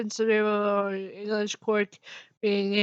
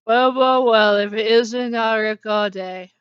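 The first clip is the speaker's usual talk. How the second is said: hammed-up Irish accent, loud gloating greeting; loud, mock-gloating Irish accent; 6 dB louder than usual. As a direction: play it as a smug Irish villain greeting. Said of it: "I said in an Irish accent".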